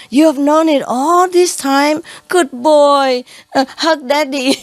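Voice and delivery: high, overjoyed father hugging his son; delighted postman. Retold or imitated. Postman hugging the boy he just learned is his, high and overjoyed.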